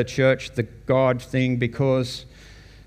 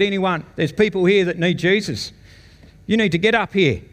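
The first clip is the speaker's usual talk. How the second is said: preacher's altar call; 5 semitones higher than usual. Retold or imitated. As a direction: urge them forward like a preacher at an altar call.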